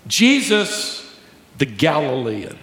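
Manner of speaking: a touch of contempt on the Galilean; mild sneer. Retold or imitated. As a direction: drop the word Galilean like a slur. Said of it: "It was a cut down".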